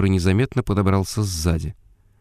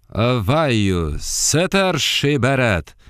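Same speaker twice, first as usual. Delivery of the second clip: high slow chant in unknown tongue; falsetto in strange dialect; 3 semitones higher, much slower than usual. Acted. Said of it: "представил фальцет на каком-то неведомом диалекте".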